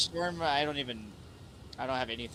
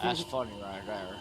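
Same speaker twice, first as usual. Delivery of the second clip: put-on Southern accent; 3 semitones lower than usual. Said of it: "Southern accent commentary".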